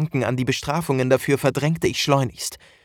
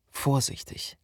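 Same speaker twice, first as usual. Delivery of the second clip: whispering; 7 dB quieter than usual. Acted. Creeping with the bell.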